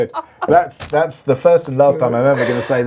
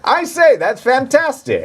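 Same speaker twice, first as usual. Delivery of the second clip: posh Brit; 10 semitones higher, slower than usual. Retold or imitated. Mock posh English exclamation.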